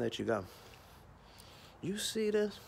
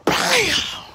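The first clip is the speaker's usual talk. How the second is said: high shouted bam; excited shout of the impact; loud bam; 13 semitones higher, 9 dB louder than usual. Retold or imitated. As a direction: slam it like a finishing move. Top rope smash.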